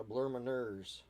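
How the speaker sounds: slow mock French accent; ridiculous French accent. Answering "what did you say", in a ridiculous French accent. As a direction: repeat it deliberately in silly French. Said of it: "that is my ridiculous French accent".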